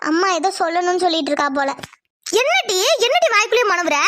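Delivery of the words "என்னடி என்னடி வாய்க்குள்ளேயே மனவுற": higher, sharp demanding yell; mother yelling at her muttering daughter. Acted. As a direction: bark the question at her. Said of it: "எதுக்காக இப்ப நீ அலறிட்டு இருக்கமா?".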